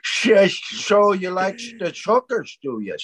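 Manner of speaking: put-on Northern Irish accent, pitch swinging. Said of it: "we're back to Northern Ireland".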